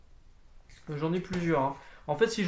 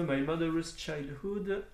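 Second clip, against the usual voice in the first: slow English title in French accent; much slower than usual. Real, not acted. Vlogger slowly reading a title to viewers, French-accented English. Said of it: "Je vous fais profiter de mon magnifique accent anglais".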